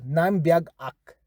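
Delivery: "Naim biag ak" slowly, falling on biag; fancy version. Shown as a demonstration. Teacher shows fancier reply to learners, careful. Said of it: "a little extra fancy".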